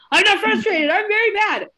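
put-on high, loud, indignant child's voice; furious student insisting he is mad; angry kid. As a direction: snap back like an upset child who feels misread. Child corrects teacher, angry.

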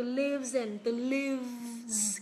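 "lives" ending in a buzzed z; teacher's careful "lives", z clearly sounded; final z sound. Shown as a demonstration. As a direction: draw out the voiced v and z in "lives". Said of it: "kết thúc vào âm z nhá".

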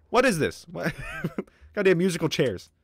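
high-pitched laughing disbelief; baffled, amused outburst; exasperated laughter. Real, not acted. Exasperated laugh at units running around.

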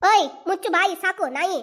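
loud, snapping insult; furious scolding retort; angry shout. Acted. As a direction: shut him up with contempt. Quarrel, calling uncle a dog.

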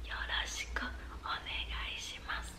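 whispered echo. Shown as a demonstration. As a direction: breathe the word softly for them to repeat. Pronunciation drill echo.

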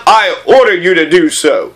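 lightly hammed-up royal order, punching "order"; commanding king. King granting the prince's request, mock-commanding. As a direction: play a mildly pompous monarch giving orders. Re-enacts king's order with emphasis.

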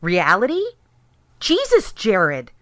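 sharp incredulous rise; exasperated. Acted. Wife exasperated with evasive husband, incredulous. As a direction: scoff at his dodge.

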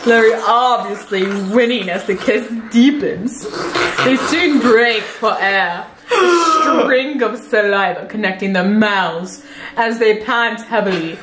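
romance read with stifled laughter; dramatic reading. Acted. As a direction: read the love scene aloud. Reading love scene aloud.

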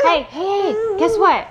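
playful excited. Real, not acted. Playful tickling.

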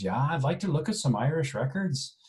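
put-on a modest, lightly done Irish accent; amateur Irish accent impression. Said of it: "my poor attempt at an Irish accent".

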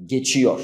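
geçiyor with a clenched, firm ç; teacher repeats geçiyor after explaining ç; full ç. Shown as a demonstration. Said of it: "نعطي حقه بحالة تشديد الأسنان".

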